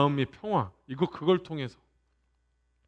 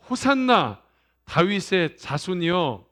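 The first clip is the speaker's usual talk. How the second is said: slow, raised voice of acclaim; imitated shout of praise, drawn out; crowd's acclamation; slower than usual. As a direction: call it out like a cheering crowd. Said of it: "많은 사람들이 뭐라고 외쳤죠".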